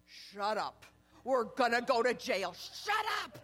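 a mock frantic shut up; mock panicked hush. Girlfriends in the back seat to her, mock panicked. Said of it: "my girlfriends in the back seat are saying".

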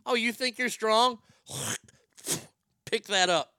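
a high, loud, laughing mock of grandma; mock grandma taunt. Comic laughing as he replays grandma's taunt, high loud mock voice. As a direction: squeak it out like a tiny fierce grandma, cracking up. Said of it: "I never realized how funny that is".

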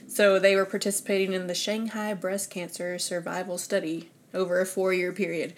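slightly winded reading aloud; out of breath. Real, not acted. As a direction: read it running short of breath. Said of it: "I get out of breath when I have to read".

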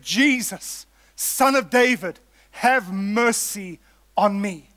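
slow, drawn-out plea, lightly acted; pleading prayer. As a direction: stretch out each phrase as a measured prayer for mercy. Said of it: "his cry was a prayer".

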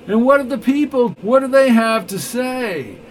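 very high, loud pressing question; defiant challenge. Acted. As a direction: hurl the question back at him.

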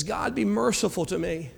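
soft repentant murmur; humble quiet plea. Retold or imitated. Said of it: "the guy who's crying in the back".

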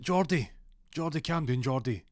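high, loud call to a barking dog; calling out, trying to settle the dog. Retold or imitated.

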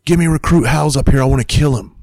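high-pitched drill sergeant calling down; imitated yell. Drill sergeant summoning a recruit upstairs, imitated high yell. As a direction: call it down like a drill instructor. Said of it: "yells down".

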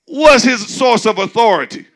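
mock townsfolk question. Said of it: "That's what they said".

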